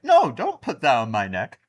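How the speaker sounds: lightly acted damsel protest; a hint of a hammed-up captive; protesting woman. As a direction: play a mock victim pleading no. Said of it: "She was like".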